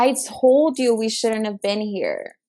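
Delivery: slow, pointed "I told you" scolding; angry at friend. Retold or imitated. Teller scolding her friend at the red light, slow and angry. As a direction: drag out the reproach word by word. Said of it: "I was so angry".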